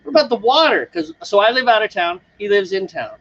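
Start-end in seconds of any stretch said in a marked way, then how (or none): 0.0-0.9 sudden realization. Retold or imitated. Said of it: "And then I like".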